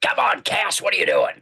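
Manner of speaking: high pitched disbelieving protest; exasperated fan. Real, not acted. Fan sees his favorite angel in a pink shirt, high exasperated protest. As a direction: plead with the character in real dismay. Fan dismayed at Castiel photo.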